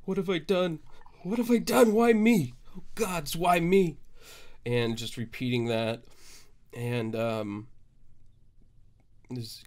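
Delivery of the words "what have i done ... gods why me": rising, louder wails of despair; anguished cry of what have I done; moaning despair. Acted. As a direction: moan it out like a broken man. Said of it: "starts moaning".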